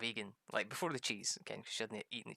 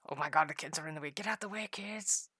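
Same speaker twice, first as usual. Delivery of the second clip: raised, rushed call to clear the way; 5 semitones higher, 4 dB louder than usual. Real, not acted. Player shooing kids out of the way, calling out.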